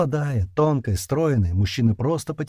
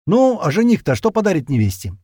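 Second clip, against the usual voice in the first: teasing; 8 semitones higher, 6 dB louder than usual. Acted. Teasing nudge at groom.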